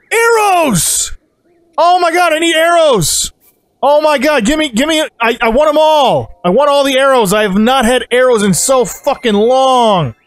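high, elated cry stretching the key words; excited outburst. Real, not acted. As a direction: blurt it out in delighted, high-pitched greed. Thrilled at finding arrows for sale.

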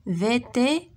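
"Vétérinaire" broken into chunks, vété, ri, naire; syllable by syllable. Shown as a demonstration. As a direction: sound out "Vétérinaire" piece by piece for learners. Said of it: "Frappe les syllabes".

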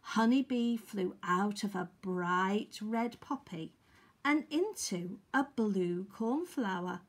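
lively, projected storybook reading; story narration. Acted. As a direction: read it out to little children. Reads a picture story.

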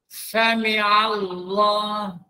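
Sami Allah very slow, ain clear; ain sounded. Shown as a demonstration. Ustaz teaching the village reciters, slow Arabic.

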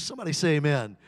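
loud call to the congregation; rally the room for an amen. Real, not acted. Preacher calling on the congregation, loud.

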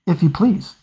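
a lightly voiced young dragon pretending not to care; unconvincing indifference. A narrator's reading. Dragon to Lawrence, accepting a name with feigned indifference. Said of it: "with unconvincing indifference".

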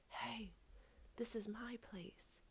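hushed, secretive whisper. A narrator's reading. Guinea Pig to the dark figure guarding his spot, whispering. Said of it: "he whispered to the figure".

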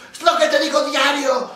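high, loud exasperated outburst, slowing on the last line; exasperated wife. Retold or imitated. Wife to her husband at therapy, loud and exasperated. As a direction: burst out, fed up with repeating herself. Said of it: "la mujer se volvió loca".

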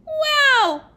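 high, loud gasp of awe; amazed wow. Acted. Class amazed.

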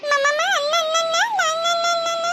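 put-on high repeated babbling for a baby; playful high-pitched baby talk; baby babble. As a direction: chant little syllables to amuse an infant.

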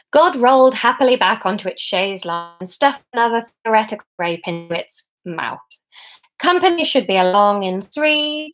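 lively, emphatic storybook reading; story narration. A narrator's reading. Author reading the epilogue to online listeners, story narration. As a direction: read it aloud as comic fiction.

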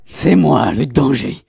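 Walter White quote. Pretend. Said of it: "ce qu'il dit, Walter White".

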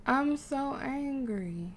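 very slow, stressed mock anger; drawn-out frustration. Real, not acted. Player failing to make a resolution, drawn-out mock anger. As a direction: stretch each word, playfully cross.

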